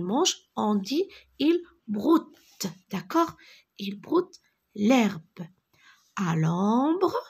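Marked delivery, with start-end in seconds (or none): 3.8-7.2 whisper. Shown as a demonstration. Teacher whispers example sentence.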